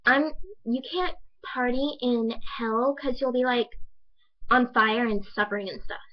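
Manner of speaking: lightly mocking, haltingly delivered impression; classmate's halting speech. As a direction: imitate a classmate stumbling through her objection. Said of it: "this is literally how she speaks".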